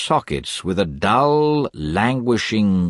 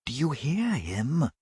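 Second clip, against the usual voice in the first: murmured; 10 semitones higher, 5 dB quieter than usual. A narrator's reading. Kate murmuring to her mother. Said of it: "murmured Kate".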